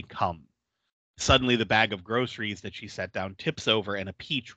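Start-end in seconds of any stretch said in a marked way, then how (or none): 0.0-0.4 deep voice. Retold or imitated. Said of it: "hears a deep voice say".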